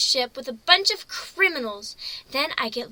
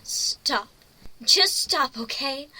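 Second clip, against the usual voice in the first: angry pleading stop; upset; 4 dB louder, slower than usual. Acted. Pony begging the captain to stop toying, upset. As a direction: tell him to quit it, louder.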